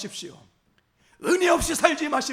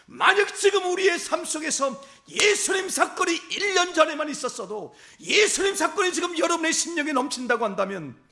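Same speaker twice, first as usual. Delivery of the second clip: fervent preaching; 3 semitones higher than usual. Acted. Pastor urging the congregation to burn with faith, fervent preaching. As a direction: preach it at full force to wake the church.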